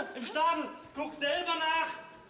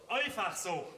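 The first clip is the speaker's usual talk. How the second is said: parroting echo; 3 semitones lower, slower than usual. Acted. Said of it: "alles nachbauen".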